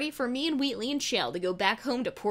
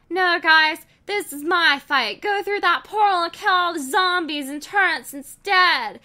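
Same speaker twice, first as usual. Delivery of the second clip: high, loud commanding cry; defiant heroine; 7 semitones higher, 7 dB louder than usual. Acted. Heroine tells friends to leave, defiant shout. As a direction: order them away, fierce and resolute.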